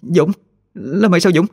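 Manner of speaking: high, shocked calling out; Thơ shocked to find her friend; startled cry. A narrator's reading. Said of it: "Thơ giật mình la lên". (giật mình la lên, giọng cao)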